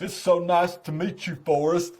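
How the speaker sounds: earnest Southern simpleton greeting; Forrest Gump. Retold or imitated. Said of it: "I walk through the whole sale like that".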